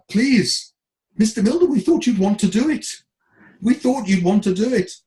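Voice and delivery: high-pitched imploring imitation; mock plaintive appeal; retold pleading. Retold manager pleads with him.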